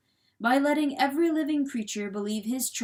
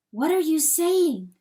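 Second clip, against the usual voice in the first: raised, louder demand; hen's higher voice, challenging him; taken aback; 7 semitones higher, 7 dB louder than usual. A narrator's reading. Hen challenges the weasel's speech.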